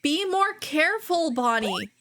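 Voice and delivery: high, sharp telling-off; worried scolding; scolding yell. Acted. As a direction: snap out of fear at a friend. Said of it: "You can't help but yell".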